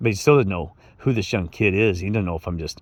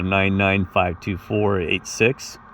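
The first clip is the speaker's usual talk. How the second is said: slow number readout; much slower than usual. Retold or imitated. Giving his number to police.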